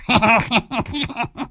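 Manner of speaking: put-on high wheezy old man's cackle; sly cackle. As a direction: cackle at the fat fee. Đồng laughs after the deal. (tiếng cười khẩy khùng khục của lão già)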